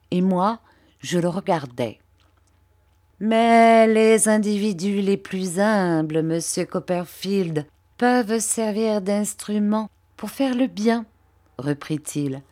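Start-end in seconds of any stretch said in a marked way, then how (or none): 3.2-11.1 lightly voiced fawning clerk, a touch higher; oily, humble flattery, pitched a little up; Uriah Heep. Uriah fawning over Mr Copperfield, lightly voiced servile tone.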